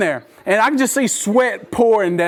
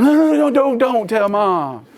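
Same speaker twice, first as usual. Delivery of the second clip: mock alarmed pleading. Dad to son about to tell Mom, pleading.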